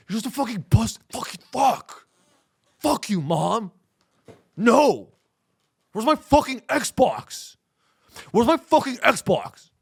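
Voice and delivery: put-on high, slow whiny teen tantrum; mock teen yelling at Mom; hammed-up teenage boy demanding his Xbox; bratty teenager. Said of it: "a bunch of teenage boys that never grew up".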